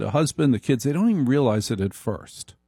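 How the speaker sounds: normal talking voice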